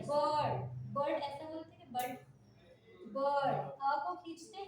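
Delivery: बर्ड with the अ stretched long, no r; long vowel in bird. Shown as a demonstration. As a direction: drag out the अ of बर्ड.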